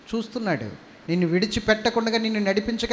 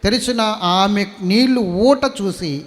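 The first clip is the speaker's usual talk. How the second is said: solemn scripture reading; 2 semitones higher, 7 dB louder than usual. Acted. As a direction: proclaim each verse to the hall. Bible reading.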